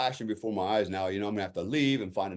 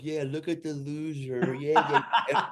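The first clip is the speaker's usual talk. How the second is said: higher, drawn-out sarcastic jeer; mock jeering; 4 semitones higher, slower than usual. Student silently answers being stared at, mock jeering drawl. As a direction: play up the bitter self-mockery.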